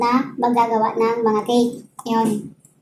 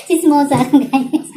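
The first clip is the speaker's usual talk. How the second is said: slow words through real laughter; laughing; 3 dB louder, much slower than usual. Real, not acted. Laughs at her own story.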